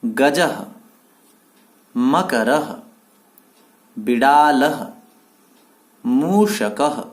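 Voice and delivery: each word alone with a pause after it for the class to repeat; word list for repetition. Shown as a demonstration. Teacher reads words for pupils to echo, pausing after each. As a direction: read each word out slowly and clearly as a model. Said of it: "आप सब मेरे पीछे पीछे इन सबको बोलेंगे".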